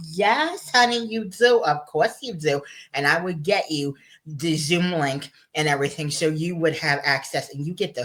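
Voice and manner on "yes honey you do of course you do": higher, sweet yes honey of course; warm welcome. Retold or imitated. Host answering a viewer who wants to join, sweetly welcoming. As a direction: welcome them like a doting friend. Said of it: "I would say".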